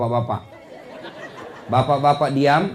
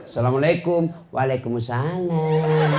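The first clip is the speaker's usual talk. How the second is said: sahdu voice. Shown as a demonstration. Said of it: "jangan kau kasih sahdu suaramu".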